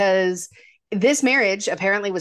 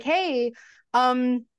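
smug Harry; 3 semitones higher than usual. Retold or imitated. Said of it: "because he's like".

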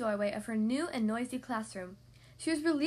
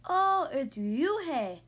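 slow, louder drawn-out teasing "Yoo-hae"; boy on the bus mocking her name, slow and louder; mocking mispronunciation; 3 semitones higher, 5 dB louder, much slower than usual. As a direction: stretch the wrong name out to tease her. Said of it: "the boy said".

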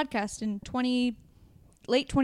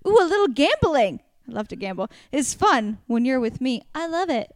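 put-on reading lyrics in a loud, laughing Jersey accent; over-the-top Jersey accent, half laughing; 4 semitones higher, 5 dB louder than usual. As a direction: ham up a Jersey girl reading a pop singer's lyrics. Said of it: "Do a Jersey accent saying the word".

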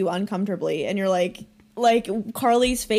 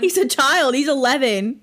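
whisper; 3 semitones higher, 4 dB louder than usual. Real, not acted. Shocked aside about the child.

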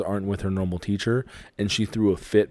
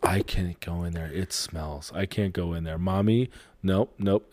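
disgusted; 2 semitones lower, 5 dB quieter than usual. Retold or imitated. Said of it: "the most disgusted face".

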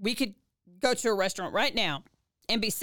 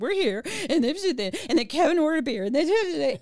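high, loud, tearful explaining; tearful rush; 7 semitones higher, 4 dB louder than usual. Retold or imitated. Woman tearfully explaining to her sponsor, tearful. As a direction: gush it out between sobs. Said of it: "I cried my little eyes out".

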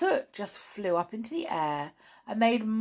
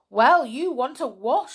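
brisk brownie woman; 7 semitones higher, 9 dB louder than usual. Acted. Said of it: "said the brownie woman".

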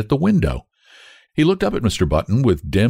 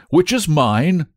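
slow, higher-pitched anxious question; gasped; 9 semitones higher, slower than usual. A narrator's reading. Father looks for his baby, gasping. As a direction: ask it in stunned suspense. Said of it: "gasped Mister Button".

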